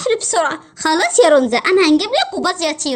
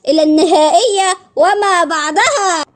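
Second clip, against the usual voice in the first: lower, drawn-out hero voice; heroic catchphrase; 4 semitones lower, slower than usual. Acted. Space toy pledges to help the mermaid, heroic. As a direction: stretch it out like a toy hero's motto.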